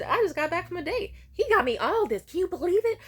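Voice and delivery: high, loud thrilled brag; excited bragging. Retold or imitated. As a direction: show off the food, delighted. Showing mom the date food.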